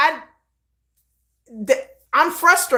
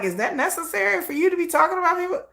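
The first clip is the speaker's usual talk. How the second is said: incredulous quip; 6 semitones higher, faster than usual. Retold or imitated. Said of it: "I just be sitting there like".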